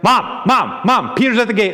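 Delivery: lightly acted child calling for mom; excited little girl. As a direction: urgently pester mom, lightly imitating a child. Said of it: "she runs off and she's like".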